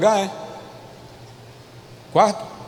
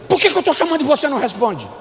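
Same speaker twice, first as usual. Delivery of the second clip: rapid-fire scolding mother; mãe cobrando resposta; 6 semitones higher, much faster than usual. Acted. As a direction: scold the child in one quick rush. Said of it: "A mãe faz assim". (bronca de mãe, bem apressada)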